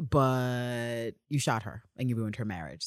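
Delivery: a hint of a baffled older man; deadpan disbelief, lightly voiced; imitating Constantine. Constantine objecting to Villanelle, mildly incredulous. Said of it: "And he's like".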